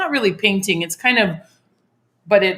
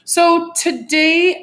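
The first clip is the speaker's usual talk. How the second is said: imitation; 9 semitones higher, 4 dB louder, much slower than usual. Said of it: "good imitation".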